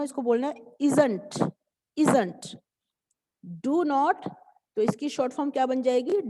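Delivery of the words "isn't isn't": "isn't" as one word, falling at the end; careful pronunciation model. Shown as a demonstration. Teacher asking pupils to listen closely, "isn't" carefully joined. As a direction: model ISN'T clearly, the -nt run in. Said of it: "दोबारा ध्यान से सुनो".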